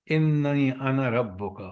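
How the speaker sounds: slow, measured Arabic recitation; Quranic recitation. Shown as a demonstration. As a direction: recite the verse slowly. Reciting Quran verse in lesson. (آہستہ قرآنی تلاوت)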